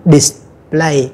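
"Display" with short low "dis" and level, strong PLAY; stress on final syllable. Shown as a demonstration. Teacher models the tone marks, short low first syllable on "Display". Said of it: "thành là dấu nặng".

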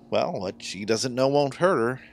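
ordinary delivery

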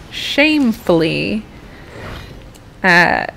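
badly faked English accent, halting towards the end; horrendous English accent. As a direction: apologize in a put-on English accent. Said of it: "with my horrendous accent".

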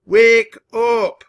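high, loud, drawn-out shriek. A narrator's reading. The mad shrieker phones at dawn, shrieking. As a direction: screech the wake-up call. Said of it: "voice shrieked back at me".

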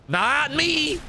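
squeaky high denial; high mock protest. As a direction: pipe it up high and innocent.

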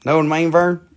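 lightly imitated Southern ad pitchman; a hint of folksy ad character; commercial catchphrase. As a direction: toss out the catchphrase like the old commercial. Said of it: "remember that commercial?".

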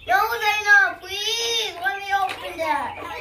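high, loud tearful whine; whiny plea. Real, not acted. Small child begging sister to let her open it, tearful whine. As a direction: beg through near-tears.

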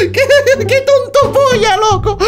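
high, wheezing laughter through the words; helpless laughing fit. Real, not acted. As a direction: lose it completely, barely able to talk. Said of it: "ya me está entrando risa".

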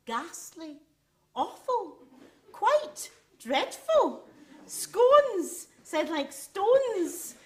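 mock the prim southern English words; a child parroting posh English, drawn out and lofty. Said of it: "New words marched in".

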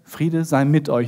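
low, slow acted greeting; calm voice from behind. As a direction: speak peace slowly and evenly. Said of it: "hinter sich eine Stimme".

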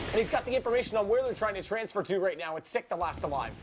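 quick live play-by-play call; esports caster. Real, not acted. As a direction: build the hype through the round.

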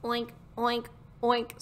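lightly voiced pig oinking; three short oinks, only a touch of snort. Storyteller voicing Pig spotting Turkey, understated oinks. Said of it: "snorted Pig".

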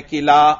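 किला ending in a long open "aa"; correct reading किला. Shown as a demonstration. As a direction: say किला with a plain long final "aa". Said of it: "किला को इसी तरह पढ़ना है".

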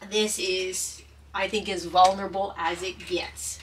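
whispered through held-back tears; tearful whisper. Real, not acted. Speaking to viewers, choked up and whispering. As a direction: barely get the words out, fighting tears. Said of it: "I'm trying so hard not to cry".

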